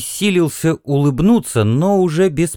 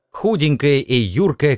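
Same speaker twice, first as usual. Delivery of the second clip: plain reading voice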